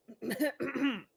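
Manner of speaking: forced throat clearing cough; fake cough. Shown as a demonstration. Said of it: "Let me get my best fake coughing".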